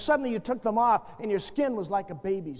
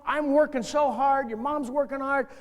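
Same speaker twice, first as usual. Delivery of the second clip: sincere fatherly talk; 3 semitones higher than usual. Shown as a demonstration. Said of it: "You just say to your kid".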